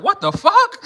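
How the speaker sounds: high squealed disbelief with a laugh; shocked brother watching on the couch, high and laughing; mock shocked brother. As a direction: play the brother gasping what the. Imagining brother's reaction, laughing.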